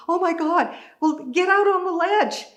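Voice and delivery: loud, high, excited call; urgent calling out. Retold or imitated. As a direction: shout across to a friend. Calling to friend at next window.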